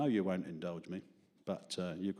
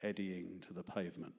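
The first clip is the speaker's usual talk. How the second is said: poem reading; slower than usual. Acted. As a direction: read the verses slowly and gently, letting lines land. Reads own poem aloud.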